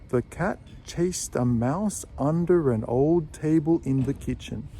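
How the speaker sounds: put-on "an old" joined, each link made smooth; careful demo with words linked; linked model sentence. Shown as a demonstration. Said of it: "Did you notice that an old was joined together".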